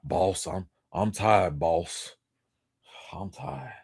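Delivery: lightly voiced weary giant, soft and slow; a mild, understated imitation of the tired prisoner; Green Mile quote. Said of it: "what's dude, uh, from the Green Mile?".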